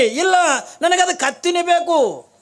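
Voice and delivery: put-on loud, high, drawn-out child's demand; high-pitched insistent kid voice; stubborn child. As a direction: play a small boy's tantrum, stretching the words. Stubborn child refuses, demands donkey.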